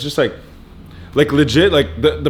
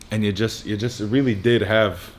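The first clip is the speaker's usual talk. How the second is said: talking while chewing gum; words round a wad of gum. Real, not acted. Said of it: "hard to speak with gum in your mouth".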